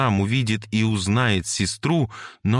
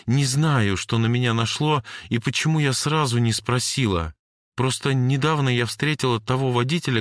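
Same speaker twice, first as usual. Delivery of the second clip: put-on higher girl's voice, earnest and quick; Jane explaining; 5 semitones higher than usual. Jane tells Cory about the driver, earnestly. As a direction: hurry to explain herself.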